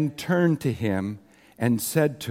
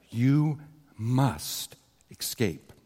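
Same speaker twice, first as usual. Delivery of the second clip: retold whisper; 3 semitones lower, 6 dB quieter, much slower than usual. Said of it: "he whispered to Brother Yoon".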